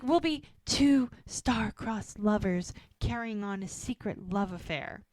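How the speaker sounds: slow, mock-romantic storybook line; lightly hammed-up star-crossed lover; a little dramatic. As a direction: swoon it out, tongue in cheek. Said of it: "now we're being a little dramatic".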